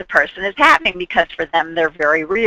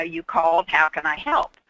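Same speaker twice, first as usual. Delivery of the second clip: easy, softer, unhurried offer of help; relaxed; 2 semitones lower, 6 dB quieter than usual. Shown as a demonstration. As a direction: stroll in calm and soft. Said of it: "in a relaxed way and say".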